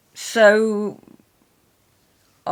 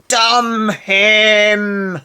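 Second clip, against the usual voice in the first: mock curse; 4 semitones higher, 12 dB louder than usual.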